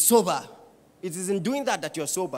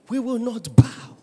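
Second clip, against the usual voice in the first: louder, stress on we; louder defiant vow; 4 semitones higher, 9 dB louder than usual. Acted. Daniel's friends defying the king, louder. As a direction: push "we" out, louder still.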